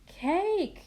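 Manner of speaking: high and loud correction; loud high yell of "Cake". A narrator's reading. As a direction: shout the right word. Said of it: "yell all three kids".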